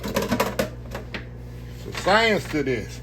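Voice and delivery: slow breathy whisper; hushed slow whisper of science. Shown as a demonstration. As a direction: whisper it slowly like a secret. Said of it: "whispered repeat".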